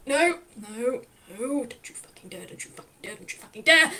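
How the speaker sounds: frantic warning. Acted. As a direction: warn the wobbling chair, panicking. The speaker wobbling, warning the chair.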